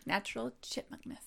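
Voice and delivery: laughing chipmunk voice. Real, not acted. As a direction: laugh through a squeaky voice. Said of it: "It looks natural".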